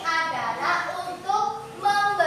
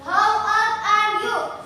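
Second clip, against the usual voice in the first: slow model question; 3 semitones higher, slower than usual. Shown as a demonstration. Teacher to pupils, modelling the question slowly and clearly. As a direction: spell out How old are you? word by word, slowly. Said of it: "Itu adalah umurnya berapa?".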